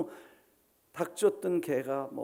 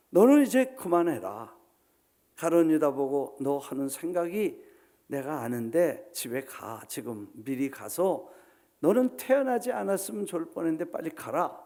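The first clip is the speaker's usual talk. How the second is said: mock dismissal; 5 dB louder than usual. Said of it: "집으로 내쫓지도 않으셨어".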